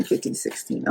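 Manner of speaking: counting under the breath; a voiceless murmured count; whispered counting. Real, not acted. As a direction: let the count fade into a whisper. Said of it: "counting trails to whisper".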